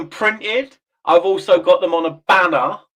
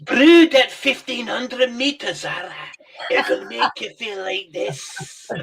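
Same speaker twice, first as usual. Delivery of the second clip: laughing; 4 semitones higher than usual. Real, not acted. Joking about witch brew.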